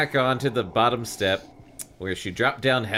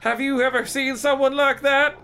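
put-on high girl voice; 11 semitones higher than usual. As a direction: play Lisa in a high girlish voice. Lisa voiced in read story.

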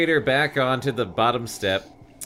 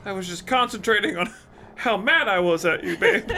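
put-on high girl voice; 10 semitones higher than usual. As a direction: play Lisa in a high girlish voice. Lisa voiced in read story.

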